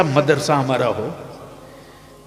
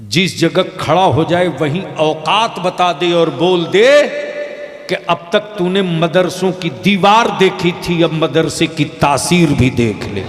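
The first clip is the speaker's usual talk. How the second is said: loud, forceful sermon climax; fiery preaching; 3 semitones higher, 6 dB louder than usual. Real, not acted. Preacher to the gathering, loud and forceful. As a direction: hammer the point home to the crowd.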